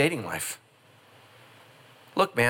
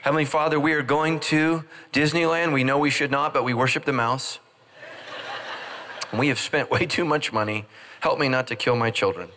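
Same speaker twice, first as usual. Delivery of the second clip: mock prayer. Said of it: "When's the last time you prayed for joy".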